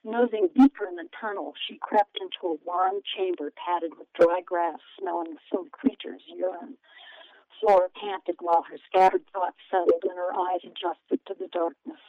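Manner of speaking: steady storytelling read; story narration. A narrator's reading. Author reads her book aloud.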